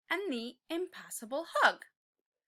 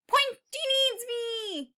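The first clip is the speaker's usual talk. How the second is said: higher, slow rallying cry; determined cry; 10 semitones higher, 6 dB louder, slower than usual. Acted. Tiny T-Rex bravely deciding to help his friend.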